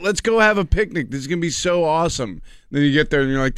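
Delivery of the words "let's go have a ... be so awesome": higher, lightly hammed-up picnic enthusiasm; mock excitement. Host mocking people planning a picnic, mock excitement. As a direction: play an eager picnic-goer, pitched up. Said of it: "It's sort of like".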